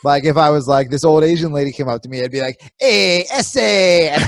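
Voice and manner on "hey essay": exaggerated Latino accent, higher and very drawn out; comic Latino accent, stretched slow; deliberately wrong accent. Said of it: "incredibly offensive other accent".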